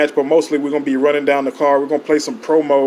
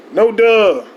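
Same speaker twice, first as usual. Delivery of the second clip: annoyed outburst; 7 semitones higher, 4 dB louder than usual. Acted. Snapping at himself.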